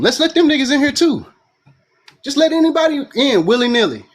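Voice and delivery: breathless after a rant; out of breath. Real, not acted. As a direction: talk while winded. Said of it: "I'm getting out of breath".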